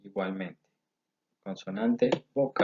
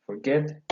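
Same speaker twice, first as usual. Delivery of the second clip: "Forget" stressed on -GET, a little higher; stress on last syllable; 4 semitones higher than usual. Shown as a demonstration. Teacher giving another example of final stress, "Forget" stressed on GET.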